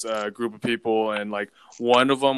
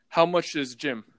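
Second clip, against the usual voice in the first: lightly imitated Russian-accented driver; higher-pitched question in a loose Russian accent; 4 semitones higher than usual. Driver asking his passenger about the gym, Russian accent. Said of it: "it's a Russian accent".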